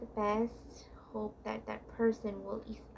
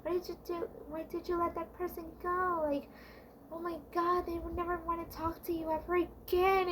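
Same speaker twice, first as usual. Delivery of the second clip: higher, frantic self-talk; panicking; 6 semitones higher than usual. Retold or imitated. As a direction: spiral into panic.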